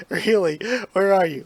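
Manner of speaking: loud, high teasing excitement; girl eagerly calling out to the invisible boy; excited. Acted. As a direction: burst out, thrilled and teasing. Girl excited her rescuer is naked.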